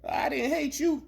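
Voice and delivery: high put-on voice of the old white man; mock white man. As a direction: imitate him, high and whiny.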